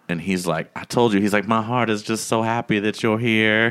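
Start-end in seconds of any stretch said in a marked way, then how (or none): 0.8-1.2 slightly raised, sweet-talking chef imitation; a hint of a famous singer in a retold quote; Chef Jerome impression. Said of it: "make him sound like Michael Jackson". 1.5-3.7 lightly voiced, singer-like chef; a hint of a famous singer, gushing; Chef Jerome impression. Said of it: "make him sound like Michael Jackson".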